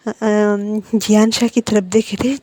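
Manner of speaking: ordinary delivery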